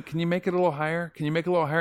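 quick, high director's nagging note; director's repeated request. Retold or imitated. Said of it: "he kept going".

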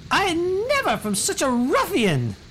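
very high falsetto huff; halting, hammed-up outrage, swooping at the end; scandalized noblewoman. Noblewoman reacts to being told to shut up, scandalized falsetto.

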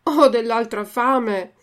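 slow mock whine of hunger; a touch of childish whimpering; hungry puppet lightly whining to his father.

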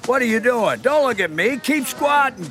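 drill sergeant. Acted. The speaker barking orders at squatting kids.

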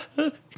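short high awkward laugh; nervous laugh. Real, not acted. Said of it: "尴尬的笑". (尴尬的笑)

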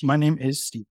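gurgling through water in throat; talking with water in throat; gurgly voice. Real, not acted. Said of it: "so I sounded like a gurgled monster".

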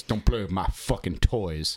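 slow, put-on deep caveman voice; mock deep-voiced menace; real deep voice. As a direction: play a caveman, drawn out and deep. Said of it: "says it in a real deep voice".

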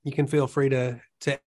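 talking while crunching snacks; chewing pretzel snacks mid-sentence; crunching chips. Real, not acted. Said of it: "if you hear me crunching on these combos".

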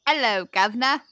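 hammy British greeting; amateur British accent. Shown as a demonstration. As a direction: put on a stock British accent. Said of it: "go British first".

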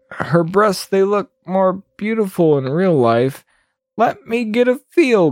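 Goblin King. Acted. Voices the leering Goblin King.

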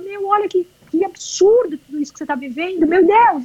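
high voice catching with tears; overwhelmed wonder on the edge of crying; tearful awe. Retold or imitated. Runner moved to tears by what she lives, tearful high awe.

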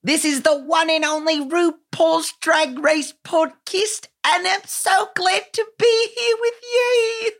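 put-on high, shrieky Aussie accent. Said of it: "I'm Mono Gippin".

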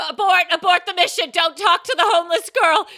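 high, very loud mock command; hammed-up alarm yelled at the crew; frantic producer. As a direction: holler an emergency order.

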